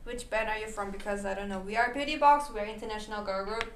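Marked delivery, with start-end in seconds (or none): 1.6-3.6 stiff robot voice. Acted. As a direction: recite it like a robot. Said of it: "로봇이다".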